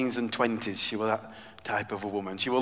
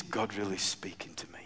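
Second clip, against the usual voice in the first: softly whispered confession; 5 semitones lower, 11 dB quieter than usual. Real, not acted. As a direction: lean in and whisper it. Confiding aside to congregation.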